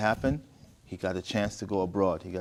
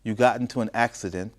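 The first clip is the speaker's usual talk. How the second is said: story narration; 4 dB louder than usual. A narrator's reading. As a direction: read the letter out phrase by phrase. Reads the mother's letter aloud.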